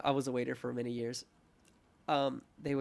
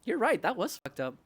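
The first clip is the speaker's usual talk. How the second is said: mild retold anger; 9 semitones higher, 5 dB louder than usual. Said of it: "that anger of like".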